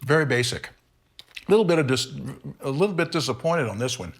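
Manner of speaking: talking through a mouthful; chewing while talking; mouth full. Real, not acted. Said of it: "Sorry, I'm talking with my mouth full".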